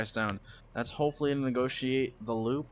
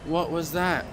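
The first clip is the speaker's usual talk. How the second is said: shocked; 5 semitones higher, slower than usual. Real, not acted. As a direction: demand to know what happened. Reacts to sudden incident.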